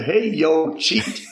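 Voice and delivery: light fond call, cheat high and breathed out; affectionate dad imitation. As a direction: say it with a father's fondness. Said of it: "he said it with affection".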